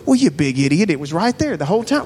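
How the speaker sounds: quick, exasperated telling-off of yourself; mock self-scolding. Tempted to scold himself over a mistake, mock exasperation. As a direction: berate yourself in jest, rising at the end. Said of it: "I'm tempted to just go".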